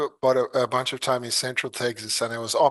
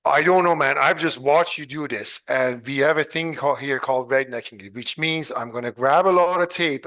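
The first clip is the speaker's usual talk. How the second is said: mock-exasperated ribbing, louder at the start; lightly voiced Texan coworker, teasing and impatient; good-natured needling of the fussing engineer; friendly agitated local; 2 semitones higher, 3 dB louder than usual. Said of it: "He kinda agitated in a friendly way".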